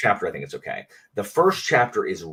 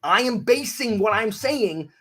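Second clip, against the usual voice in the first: high-pitched, fed-up protest; exasperated rant; 11 semitones higher than usual. Real, not acted. Venting at fans who say reread it, exasperated. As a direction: let frustration push the pitch way up.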